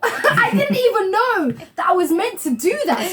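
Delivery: slow, laughing disbelief; laughing it off at herself; laughing, half crying. Real, not acted. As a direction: giggle through the words slowly. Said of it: "I really was, like, shocked".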